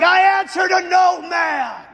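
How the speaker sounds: slow, high, loud demonic snarl; defiant demon. Retold or imitated. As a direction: sneer it with contempt. Demon defies the exorcist.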